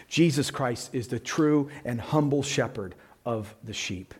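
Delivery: hushed, unvoiced reverence; whisper. Real, not acted. Preacher whispering to congregation about the shepherd. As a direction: whisper it in awe.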